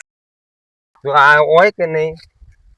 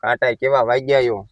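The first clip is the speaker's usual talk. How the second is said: mocking echo; 6 semitones lower, 6 dB quieter than usual. Mimics the other's complaint.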